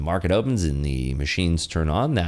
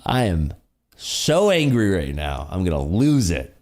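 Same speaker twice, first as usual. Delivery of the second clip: sarcastic mock anger. Sarcastically claims to be angry.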